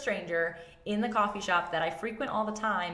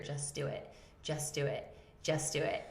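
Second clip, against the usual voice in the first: inner divine voice; 2 semitones lower, 5 dB quieter than usual. Retold or imitated. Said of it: "I hear".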